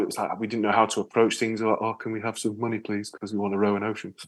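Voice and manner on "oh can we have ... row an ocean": timid, much softer ask; shy. Retold or imitated. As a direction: ask for money sheepishly. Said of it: "very shy about it".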